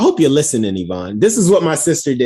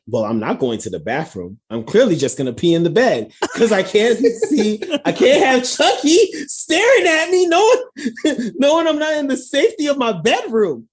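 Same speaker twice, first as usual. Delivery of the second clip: mock-panicked protest, climbing high in pitch; protesta exagerada de niño asustado; 7 semitones higher than usual. Acts out own childhood protest, building.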